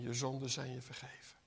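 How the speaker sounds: soft, fast whisper; whispered absolution. Acted. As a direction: breathe the words of forgiveness. Jesus' words softly to woman.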